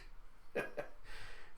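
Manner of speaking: low-volume imitated villain chuckle; soft mock-evil laughter. Kanjuro gloating that Kozuki is finished, soft villain laugh.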